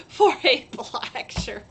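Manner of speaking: laughing mid-sentence; chuckling through the words. Real, not acted. Laughing at her own printing mistake.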